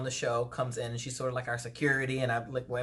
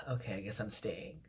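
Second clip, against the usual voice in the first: soft, deflated give-up, lower and quieter; resigned sigh; 7 semitones lower, 10 dB quieter than usual. Retold or imitated. To the doctor who won't let her leave, resigned and quiet. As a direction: let the fight drain out of you.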